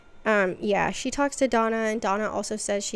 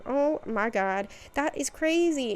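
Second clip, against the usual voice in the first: mock astonishment; amazed gasp of surprise; 4 semitones higher than usual. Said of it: "and she's like".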